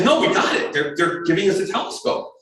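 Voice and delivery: excited insistence, starting very high; acted-out thrilled correction; freaking out. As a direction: imitate a partner insisting on great news. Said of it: "And she freaks out".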